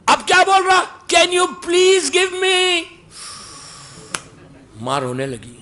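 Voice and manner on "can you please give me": high, slow, sweetly stretched please; polite request. Retold or imitated. Son asking his wife sweetly, slow polite plea. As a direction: beg nicely, drawn out.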